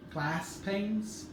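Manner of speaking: GLASS with a short American "a"; American accent. Shown as a demonstration. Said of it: "I'll try and do my Texas accent".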